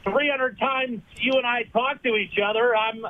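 winded, short of air while talking; out of breath. Real, not acted. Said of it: "I'm out of breath".

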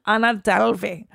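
lightly put-on accent of the TV character; Anna Delvey. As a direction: say the name in her accent. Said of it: "her accent is amazing".

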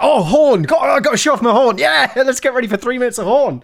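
hammed-up high excitement; mock excited. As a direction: squeal it out like a kid.

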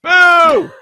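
loud mock boo. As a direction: boo the man loudly. Booing the clip.

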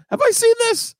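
put-on high, confused old dad; dad impression. Son mimicking his forgetful dad, high and puzzled. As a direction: play the dad who forgets every year. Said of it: "Every year he'd go".

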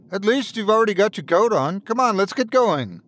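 a hint of an eager wife; lightly voiced cheerful wife. Wife hurries him.

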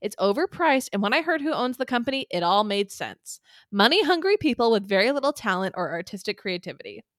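mock Irish review voice. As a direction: read it like an outraged reviewer. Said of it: "Pippa lookalike in one of these ads".

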